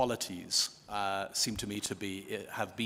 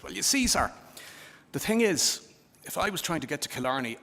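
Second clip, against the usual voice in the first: put-on higher, louder old man's voice after long thought; punchline old-timer, pitched up; old Irish countryman; 6 semitones higher, 4 dB louder than usual. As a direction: voice an old local answering a lost tourist. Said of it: "come across an old man".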